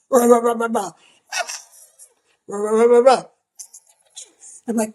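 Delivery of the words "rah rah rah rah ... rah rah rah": muffled far-off voices. Retold or imitated. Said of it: "it's like".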